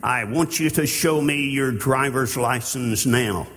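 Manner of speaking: firm, commanding traffic cop; authoritative officer. Pretend. Preacher voicing a police officer demanding a license, firm. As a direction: order the driver like a stern cop. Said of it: "Now he's speaking with the authority".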